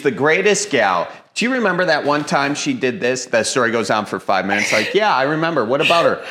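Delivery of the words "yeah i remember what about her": bored listener. Retold or imitated. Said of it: "like my grandma telling a story".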